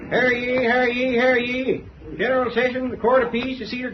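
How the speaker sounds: bailiff's call. Acted. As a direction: cry it out like opening court. Bailiff opening the court session.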